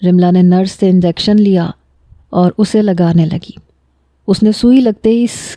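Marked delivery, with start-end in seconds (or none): 5.2-5.6 pained hiss. A narrator's reading. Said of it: "کی آواز نکالی".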